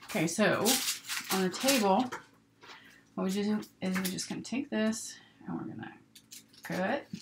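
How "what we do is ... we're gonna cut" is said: rustling paper under the voice. Real, not acted. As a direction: talk over crinkling paper. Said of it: "sorry about all the paper rustling noises".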